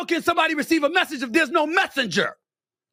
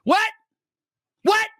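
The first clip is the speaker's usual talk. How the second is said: incredulous what; 9 semitones higher than usual. Real, not acted. Incredulous reaction to Shapiro quote.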